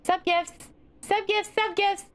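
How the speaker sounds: high excited chant; hoarse sleep deprived hype. Real, not acted. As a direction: chant it, thrilled. Chanting sub gifts.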